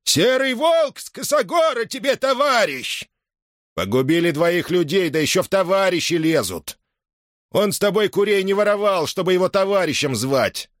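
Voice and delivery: high-pitched indignant snarling back; angry retort. A narrator's reading. Arkhip snaps back at being called comrade, indignant. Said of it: "Архип огрызнулся".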